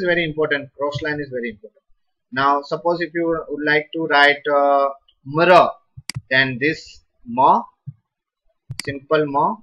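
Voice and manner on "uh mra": mra, the m half and the ra full; mra sound. Shown as a demonstration. Teacher modelling mra for students, blended. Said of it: "this is called mra".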